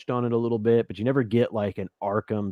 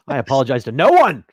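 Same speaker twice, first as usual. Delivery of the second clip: laughing; 12 semitones higher, 6 dB louder than usual. Real, not acted. Laughing mock defiance.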